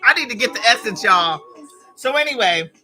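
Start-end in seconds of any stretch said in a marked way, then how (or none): 0.0-1.4 high and loud, stretched at the end; much higher, louder eager longing; excited. Real, not acted. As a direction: gush about going to the event. Excited about Essence event.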